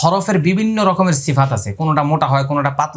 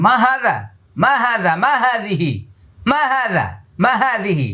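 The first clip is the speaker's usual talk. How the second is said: মা হাযা in Arabic with high stressed মা; Arabic phrase; 8 semitones higher, slower than usual. Retold or imitated. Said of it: "আরবরা বলে".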